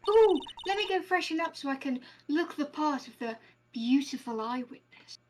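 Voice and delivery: lightly voiced self-admiring eyewitness; vain coquettish witness. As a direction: play a preening game witness, lightly. Voices game's vain female witness.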